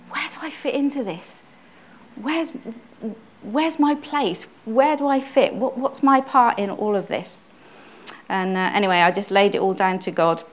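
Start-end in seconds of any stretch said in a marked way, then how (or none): 0.1-7.4 pleading. Retold or imitated. Retold anguished prayer.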